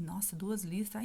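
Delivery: hushed, stunned whisper over the test; whispered shock. Retold or imitated. Woman alone reading a pregnancy test, whispering in shock. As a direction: breathe it out in disbelief.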